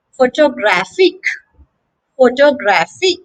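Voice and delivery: pho-to-GRAPH-ic; "photographic" with the weight on GRAPH; third-syllable stress. Shown as a demonstration. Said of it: "the stress is on the third syllable".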